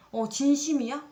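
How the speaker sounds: a startled "really?"; surprised question. Retold or imitated. Reacting to the guy's long message with a surprised question.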